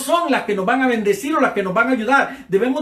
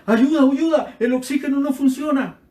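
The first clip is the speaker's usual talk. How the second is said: old patient shouting for the nurse, higher mock yell; retold desperate shout; 5 semitones higher than usual. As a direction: cry out that the oxygen is broken. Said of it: "Y él gritaba".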